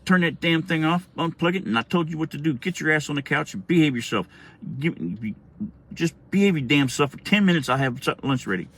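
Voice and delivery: lightly voiced exasperated mother laying down orders; scolding mom.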